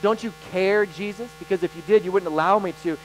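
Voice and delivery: pleading complaint. Retold or imitated. Believer in struggle accusing Jesus of not caring, pleading. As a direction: press each accusation like a hurting believer.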